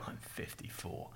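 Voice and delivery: soft private whisper to yourself; whispered inner thought. Pretend. Someone quietly reassuring themselves about climate change, whisper. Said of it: "you're gonna go".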